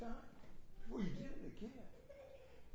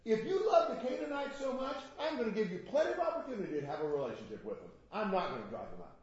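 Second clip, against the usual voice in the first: God's ironic verdict; 3 semitones higher, faster than usual. Acted. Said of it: "He says".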